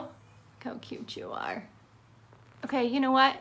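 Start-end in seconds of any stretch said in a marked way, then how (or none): 0.0-1.7 soft whisper to a pet; hushed cooing. Real, not acted. Vlogger admiring their bird, whispered coo. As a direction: whisper it, barely voiced.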